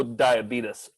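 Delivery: diabetes said "die-a-BEE-tus"; Brimley-style pronunciation. Retold or imitated. Proposing they adopt his way, diabetes as "die-a-BEE-tus". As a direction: end diabetes in a short "tus". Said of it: "the one guy who only said diabetes".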